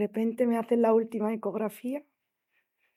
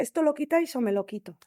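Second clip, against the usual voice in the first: frantic ultimatum; 4 semitones higher, faster than usual. Retold or imitated. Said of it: "me puse como una loca".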